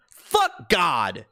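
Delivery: a sudden burst of anger at God; angry shout. Real, not acted. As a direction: spit out a short furious yell. Angry outburst at religion.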